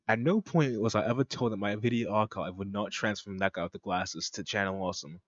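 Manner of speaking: badly faked French accent; failed French accent. Shown as a demonstration. Reader voicing the French guy's statement, bad French accent. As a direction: attempt a French accent and miss. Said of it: "That's not a French accent. I can't do a French accent".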